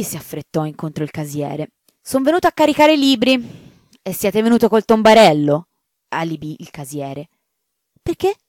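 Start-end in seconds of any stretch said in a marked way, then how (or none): 2.0-3.4 much higher and fast, matter-of-fact; a simple fellow stating his errand; sacristan's voice. Acted. Sacristan answers. 4.0-5.7 higher and louder, incredulous; can't believe the cart; the caretaker shocked at the cart; astonished caretaker. Acted. Caretaker balks. 8.0-8.3 innocent why. Acted. Sacristan, straight-faced.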